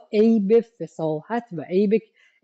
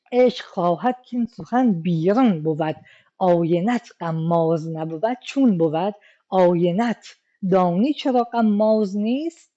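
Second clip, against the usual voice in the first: poetry recitation. Shown as a demonstration.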